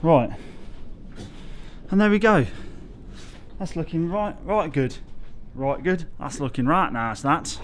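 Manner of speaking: lightly put-on vague northern English accent, pleased with the work; mock northern English accent, admiring the arch; a hint of a hammed-up northern English accent praising the brickwork. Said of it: "Don't know what accent that was".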